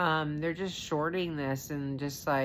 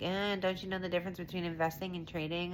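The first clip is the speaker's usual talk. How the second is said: mock critic; 2 semitones higher, 5 dB quieter, much faster than usual. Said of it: "people are gonna be like".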